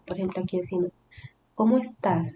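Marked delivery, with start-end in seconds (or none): 1.5-2.3 "¿Cómo estás?" said with a clear question tune; entonación de pregunta. Shown as a demonstration. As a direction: ask "¿Cómo estás?" as a demonstration. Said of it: "damos la entonación de pregunta". ("¿Cómo estás?" con entonación de pregunta)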